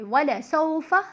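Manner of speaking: "वला सौफा" with unstretched endings, glide on "सौ"; short vowels. Shown as a demonstration. Teacher demonstrates no stretching, measured "वला सौफा" with short endings. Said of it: "इनको बिल्कुल भी हम नहीं खींचेंगे".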